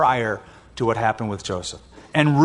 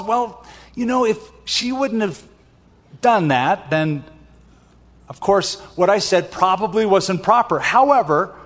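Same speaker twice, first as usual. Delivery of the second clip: higher-pitched, hedging self-justification; making excuses; 4 semitones higher than usual. Acted. Pastor mimics people who won't admit fault, hedging excuses. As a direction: stall and qualify like someone dodging an apology.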